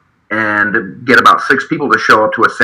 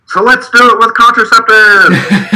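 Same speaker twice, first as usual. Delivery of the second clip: high, slow mocking yell with a laugh; laughing heckler's yell; 12 semitones higher, 3 dB louder, slower than usual. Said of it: "I did yell out".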